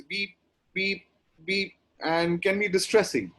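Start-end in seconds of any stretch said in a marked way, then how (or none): 0.0-1.7 evenly spaced hospital monitor beeps; higher-pitched, spaced-out machine beeping; imitated machine beeps. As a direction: mimic a monitor, short beeps with gaps. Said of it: "all they're listening to is this".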